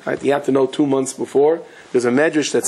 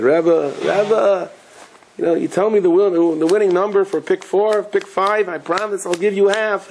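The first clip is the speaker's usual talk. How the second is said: higher, wheedling plea to the rebbe; higher begging tone, hand outstretched; eager pleading; 5 semitones higher than usual. Retold or imitated. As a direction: sweet-talk him for the numbers. Pleading man begs the rebbe.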